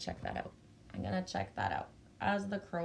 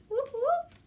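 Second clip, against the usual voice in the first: high, loud cheer; cheering whoop; 5 dB louder than usual. Real, not acted. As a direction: whoop it up for the crowd. Cheering viewers arriving.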